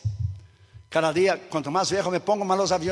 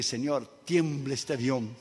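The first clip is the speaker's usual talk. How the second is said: hushed prayer; 6 semitones lower, 9 dB quieter, slower than usual. Retold or imitated. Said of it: "Y yo oré al Señor".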